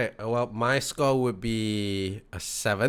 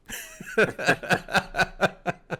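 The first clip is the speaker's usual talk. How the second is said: laugh; 8 semitones higher than usual. Real, not acted. Laughing at MVP dog joke.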